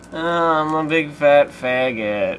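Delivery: slow, drawn-out creature voice; pterodactyl. Pretend. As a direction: stretch every word like a beast. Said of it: "Do your best pterodactyl impression".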